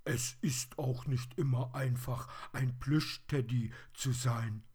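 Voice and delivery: high, loud toy-bear voice; plaintive plush teddy. A narrator's reading. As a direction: complain as a forlorn little teddy.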